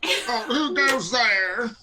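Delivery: high, very slow mock bellow; dopey cartoon bellow. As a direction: stretch it out like a cartoon oaf. Players mimic the guard's call.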